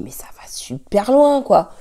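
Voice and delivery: hushed unvoiced whisper. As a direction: whisper it in disbelief. Retold own inner reaction, whispered.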